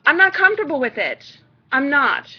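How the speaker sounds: firm stressed no, leaning on not; firm refusal. Shown as a demonstration. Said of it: "gonna come off as a bitch".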